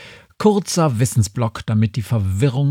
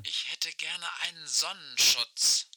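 crackling radio voice, much softer; like a far-off voice over a walkie-talkie; old rotary phone; 12 dB quieter than usual. Acted. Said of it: "Aisches Stimme knarzt durch das Funkgerät".

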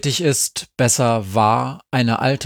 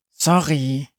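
plain reading voice

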